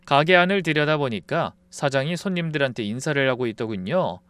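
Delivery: usual speaking voice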